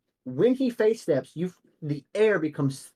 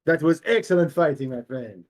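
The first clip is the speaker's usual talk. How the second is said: lightly declaimed hero's praise, dropping at the end; a hint of grand hero; Demos praising; 4 dB louder than usual. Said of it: "and he goes".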